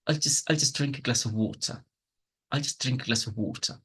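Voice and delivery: quick, with "just", "a" and "of" as schwas; reduced function words. Shown as a demonstration. Teacher demonstrating connected speech, weak "just", "a" and "of". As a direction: rush lightly through "I'll just", land on "water". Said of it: "just as well is gonna be".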